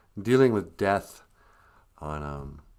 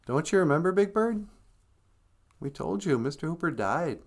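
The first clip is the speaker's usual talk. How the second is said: gentle reminder, lightly voiced higher; Marie; 5 semitones higher than usual. Marie reminding Big Bird of the death, lightly imitated. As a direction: break it patiently to a child. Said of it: "And Marie's all like".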